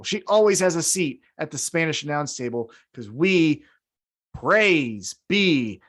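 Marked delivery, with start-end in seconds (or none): 4.3-5.8 mock sermon. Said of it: "turning this into a sermon".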